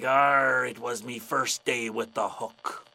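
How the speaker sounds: loud arr, then low, drawn-out punchline; growly pirate voice. Acted. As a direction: confess it like a sheepish sea dog. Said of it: "And the pirate's like".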